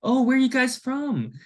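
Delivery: high-pitched mock-breezy question; casual friendly chat. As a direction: imitate a chummy stranger making small talk. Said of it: "very casually talking to us".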